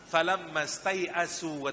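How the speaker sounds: slow, drawn-out recitation of "Falamma stai'asu"; Quranic recitation. Shown as a demonstration. Preacher recites the verse to the congregation, drawn out. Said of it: "kata Al-Quran".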